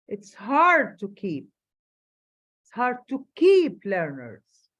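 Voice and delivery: hard said slowly and loud; stress on hard. Shown as a demonstration. Teacher reading, stressing hard. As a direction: lean into the word hard. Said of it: "واخدين بالكم من الستريس".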